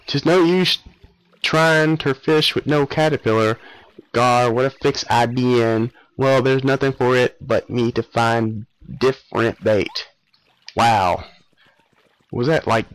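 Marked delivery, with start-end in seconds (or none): 0.0-10.1 put-on old fisherman's folksy drawl, slowed; gruff old angler grumbling in dialect; fisherman accent. Old fisherman mutters to himself in dialect. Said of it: "what kind of accent was that?".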